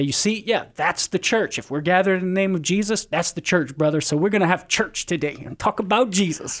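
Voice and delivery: a hint of an easygoing believer imitated; Protestant friend. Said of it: "Protestant friends will say".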